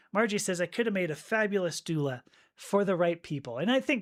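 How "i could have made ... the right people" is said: ordinary talk, nothing marked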